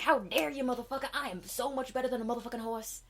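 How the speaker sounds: offended unicorn, lightly hammed; mild mock outrage. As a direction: huff at him. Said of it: "she's like".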